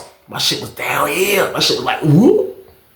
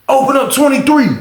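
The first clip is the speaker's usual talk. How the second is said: called out order; 9 semitones higher than usual. Retold or imitated. Guard calling to open cell.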